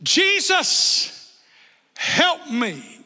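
retold plea to Jesus, high on the name; pleading prayer. Preacher recalls his own prayer to Jesus, pleading. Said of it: "You ever prayed that".

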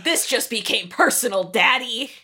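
lightly acted daughterly threat; mildly hammed-up confrontation; mock menace. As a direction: make it personal, soap-opera style. Acted quarrel, Veronica to her father.

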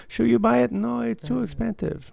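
high, exaggerated Asian accent, rising; mock Asian accent asking whether to buy; terrible Asian accent. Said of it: "here's my terrible Asian accent".

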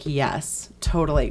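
low, soft mock approval; retold low approval. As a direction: drop low and quiet to act out approving. Acts out approval of bearded actor.

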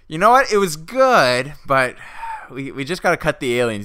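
high, chirpy mock publisher; playing the cheery editor giving bad news. Publisher cheerfully breaking bad news to author, mock upbeat. Publishers voiced in retold pitch.

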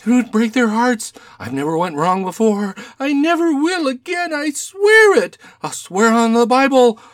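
high, wailing plea for mercy; frantic little man, pitch climbing as he swears; desperate pleading. Acted. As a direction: beg as if on your knees. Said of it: "threw himself down suddenly upon the rug".

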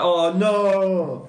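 hammed-up upset "oh no"; upset mock shout. Imitating a film character who drops his chainsaw, upset mock shout. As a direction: imitate an upset man's shout, half laughing. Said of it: "shouts like he's really upset".

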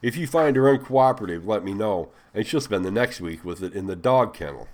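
loud enough to hear. A narrator's reading. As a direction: announce it so she hears every word. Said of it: "loud enough for her to hear".

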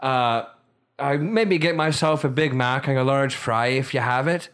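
light Irish brogue; Irish accent. Shown as a demonstration. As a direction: order casually in mock Irish. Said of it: "my Irish accent isn't".

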